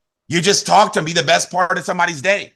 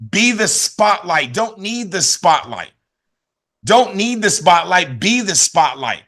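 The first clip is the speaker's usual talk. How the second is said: slow motto; slower than usual. Acted. Slow chiastic motto delivery.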